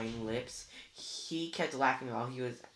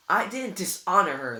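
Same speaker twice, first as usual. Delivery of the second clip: a louder, sharp retort; snapped; 5 semitones higher, 10 dB louder than usual. A narrator's reading. Luke answering Annabeth's accusation, snapping back. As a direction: bite back fast. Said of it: "Luke snapped".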